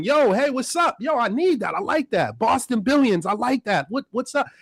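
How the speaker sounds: a hint of an excited customer phoning in; imitating a friendly caller wanting the merch; white callers imitated. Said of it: "I got Caucasian people calling".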